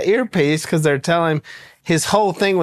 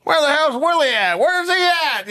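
retold calling out; 11 semitones higher than usual. Trump calling for him.

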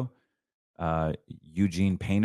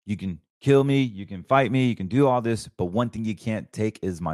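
raised defiant voice; raised, defiant challenge to his enemies; 2 semitones higher than usual. Real, not acted.

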